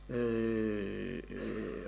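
slow stuck stammer. Acted. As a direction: drag out a frightened stammer. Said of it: "מה אתה מגמגם?". (גמגום איטי ונבהל)

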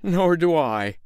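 not to be outdone; boastful tailor. Acted. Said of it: "said the tailor".

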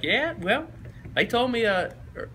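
high, halting coach voice; coach impression. Coach explaining the block F to recruits, high-pitched imitation. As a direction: stumble along in a high coach voice. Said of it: "He's like".

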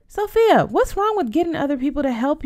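high, loud rebuke of her name; big sister losing patience; exasperated scolding. Acted. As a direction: call her out, fed up.

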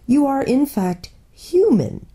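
a nervous little faun probing gently; faun character voice. A narrator's reading. The faun politely quizzes the girl in a fussy, nervous voice.

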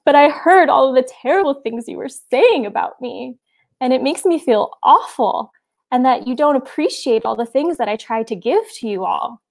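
mildly tearful complaint, lightly voiced; through her sobs. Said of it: "through her sobs".

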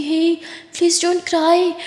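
drawn-out tender hey; gentle comfort. Acted. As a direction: slowly soothe her, don't let her cry. Comforting crying sister.

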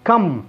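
كم with a brief open "a"; short fatha. Shown as a demonstration. Teacher correcting the long vowel, short fatha. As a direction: keep كم short and open, "kam". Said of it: "لكن هي فتحة".

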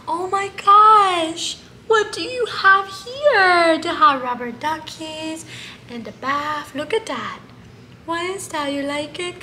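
put-on high, slow cooing to a baby pet; baby talk. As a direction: coo at him like a tiny baby. Coos to baby monkey.

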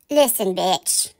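low, slow, cutting; cold contempt. Real, not acted. Vlogger telling off Laura, low slow contempt. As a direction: drop it low and slow to put her down.

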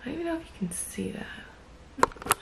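soft early-morning whisper. Real, not acted. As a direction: whisper so nobody wakes.

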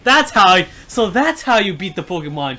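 high, loud, laughing excitement; gleeful outburst. Real, not acted. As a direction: shout it out, cracking up. Gleeful laughing outburst at game win.

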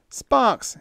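high, panicky yell. A narrator's reading. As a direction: yell for him urgently. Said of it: "he yelled".

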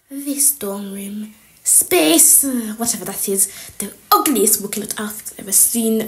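lightly voiced disdainful inspector; snooping sneering teacher. Teacher snooping through pupils' dorm, muted disdain. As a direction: pick over the room with mild contempt.

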